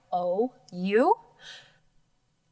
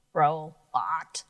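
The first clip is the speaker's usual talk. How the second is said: "Robot" dropped lower with a rising end; lower take; 4 semitones lower than usual. Shown as a demonstration. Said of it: "Let's try this word".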